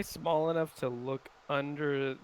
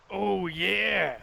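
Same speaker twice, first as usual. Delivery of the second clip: loud, higher mock-confident shout back; bluffed confidence; 5 semitones higher, 5 dB louder than usual. Player answering the voice at the door, bluffing confidence. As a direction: call it back with put-on bravado. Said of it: "bluff of confidence".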